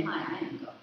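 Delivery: whispered, breathy reveal of a secret; hushed reveal. Pretend. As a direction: drop to a whisper for the big reveal. Contrasting whispered reveal of claim.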